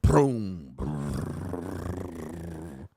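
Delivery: low rumbling engine purr imitated. Imitating a supercar engine purring to start. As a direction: purr like a finely tuned supercar. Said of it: "it start up and it be like".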